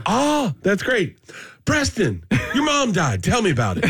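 very slow, high mock Black accent; slow, high host voice in a mock Black accent with an awkward cheer; racist Black accent. Comic mocks a host's clumsy transition in a Black accent. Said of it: "now I'm doing a racist black accent".

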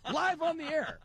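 laughing through the words; talking through real laughter. Real, not acted. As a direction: giggle as you tell it. Laughing while retelling.

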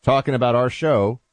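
mock posh British presenter accent; put-on British BBC accent, lightly done. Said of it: "presenters have to talk like this".

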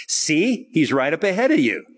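lightly acted pun with a lift on "See"; playful wordplay. Young women answer those seeking the seer, playful wordplay. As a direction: toss out the pun, lightly teasing. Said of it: "a little play on words".

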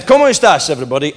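a hammed-up Latino accent greeting the rivals; clumsy fake Latino accent; bad Latino accent. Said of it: "I tried to do a Latino accent".

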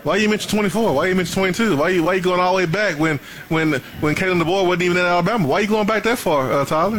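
high, needling questions; mock-indignant questioning; teasing interrogation. Real, not acted. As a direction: grill him playfully. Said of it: "teasing challenge".

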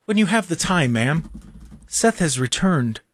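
measured, deferential announcement, spaced out; mock-polite retelling. Host insisting he asked Christine nicely, overly polite and measured. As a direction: retell it with exaggerated courtesy, unhurried. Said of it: "That's how I said it".

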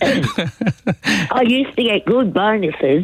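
slow words through a laugh; amused, laughing slowly. Real, not acted. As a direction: chuckle it out as you brag. Laughs while telling about bonuses.

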